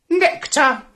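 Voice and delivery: high tiny butterfly voice; fluttering voice. Acted. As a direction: answer light and high. Butterfly replies.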